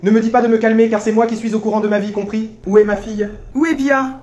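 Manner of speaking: indignant, insistent retort; worked up. Acted. Father telling the maid off as he demands his daughter, worked up. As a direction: refuse to be calmed, pressing hard. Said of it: "Détendez-vous".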